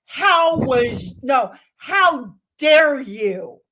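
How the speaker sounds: outraged, slow and loud; loud indignation. Acted. Telling off the neighbor in front yard, loud indignation. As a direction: punch out each word, scandalized. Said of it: "put volume behind things that I mean".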